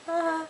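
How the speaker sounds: soft, high "ah"; excited squeal. Real, not acted. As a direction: let out a small high squeal. Happy over many cards pulled.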